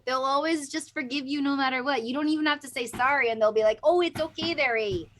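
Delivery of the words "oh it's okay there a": put-on Canadian accent; stereotyped Canadian voice. Imitating Canadians who always forgive you, stereotyped Canadian accent. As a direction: exaggerate a forgiving Canadian lilt. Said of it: "I'm making a very stereotyped Canadian voice".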